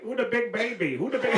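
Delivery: baby talk in a put-on Asian accent; mock Asian accent. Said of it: "the moment I do an Asian accent".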